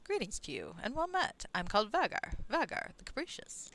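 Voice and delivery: lightly voiced theatrical introduction; pretentious Vagar. Vagar the Capricious greets a newcomer, mildly grand. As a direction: introduce yourself with a rising flourish.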